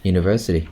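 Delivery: UNIVERSITY at normal speed, third syllable stressed; relaxed UNIVERSITY with weight on VER; natural stress on VER. Shown as a demonstration. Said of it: "It will be much more natural".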